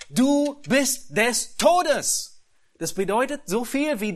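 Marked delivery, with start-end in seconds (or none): 0.1-2.4 slow, loud and high pronouncement of doom; God's verdict. Acted. God pronouncing doom on Abimelech, slow and loud. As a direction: thunder it like a death sentence. Preacher voices God's death sentence.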